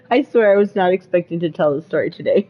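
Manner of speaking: talking right after a hit; words pushed out on exhaled smoke; exhaling smoke. Real, not acted. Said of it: "Hold on, let me take a hit".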